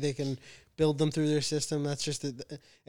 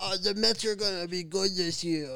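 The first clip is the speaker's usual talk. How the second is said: mocking old caller voice; like an old fan phoning in; 4 semitones higher than usual. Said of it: "Is that if a baby was also eighty years old and called into the fan".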